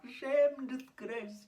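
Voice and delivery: high, mock outraged cry; shouting parents. Storyteller mimicking friend's shouting parents, high mock shouting. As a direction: imitate parents crying out in outrage. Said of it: "her mum's shouting and her dad's shouting".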